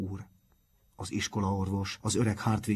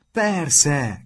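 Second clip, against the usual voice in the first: loud, higher exclamation; shouted; 7 semitones higher, 9 dB louder than usual. A narrator's reading. Martin to his friends, shouting in sudden realisation. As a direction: burst out with it. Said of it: "kiáltotta Martin".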